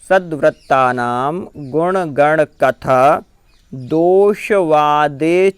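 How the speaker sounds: measured chant, word by word; recited Sanskrit verse, slow. Shown as a demonstration. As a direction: recite slowly for pupils to repeat.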